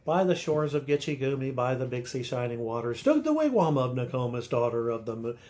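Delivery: "By the shores of Gitche Gumee" in an unvarying strong-weak beat; over-regular meter. Shown as a demonstration. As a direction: chug through "By the shores of Gitche Gumee" as too-consistent sing-song verse. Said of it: "You don't wanna do that".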